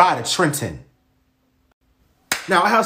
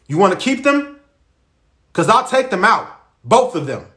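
threatening shout; 4 semitones higher than usual. Acted. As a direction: bark the threat at them. Dad threatening loudly.

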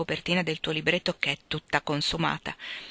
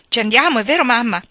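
eager; 6 semitones higher, 9 dB louder than usual. Acted. Joe eagerly asks mother.

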